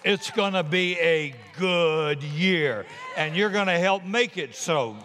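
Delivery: preaching at full force; roaring rallying speech. Acted. Opening declaration to the year.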